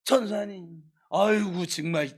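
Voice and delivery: mock listless churchgoer's moan; droopy, dejected. Slumped member greeting the church worker, mock dejected. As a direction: imitate someone dragging themselves into church. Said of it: "이렇게 축 처져가지고".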